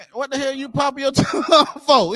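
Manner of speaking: hammed-up scolding in a mock African accent. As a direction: mimic an African elder scolding, half laughing. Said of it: "That's how they talk".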